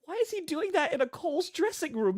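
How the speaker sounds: high laughing disbelief; laughing, can't believe it; incredulous laughing. Real, not acted. Incredulous at Coles dressing room.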